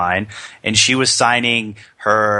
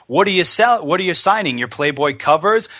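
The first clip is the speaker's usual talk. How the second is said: Ric Flair impression; 6 semitones higher than usual. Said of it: "he goes".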